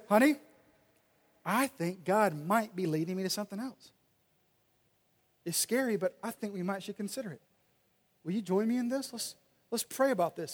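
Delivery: soft, tender invitation to his wife; gentle asking. Pretend. Husband gently asking his wife to pray with him, soft and tender. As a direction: coax her in softly, humble and sincere.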